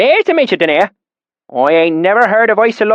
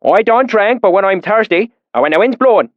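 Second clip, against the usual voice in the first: put-on deep valley accent; 5 semitones higher than usual. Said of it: "his accent so thick and oily".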